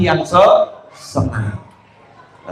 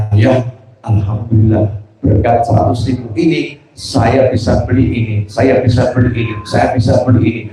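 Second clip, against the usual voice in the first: lower, contented thanks, listing each purchase; a lightly voiced thankful son; happy, grateful child; 5 semitones lower than usual. Grateful son thanks his father, calm and lower. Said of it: "Sama senang dia ngomongnya".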